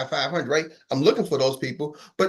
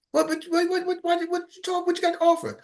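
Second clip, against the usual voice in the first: much higher, stuttering impatience; impatient high voice; 12 semitones higher than usual. Retold or imitated. Impatient callee cuts off the nervous telemarketer, voice high. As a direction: sputter what what what up high.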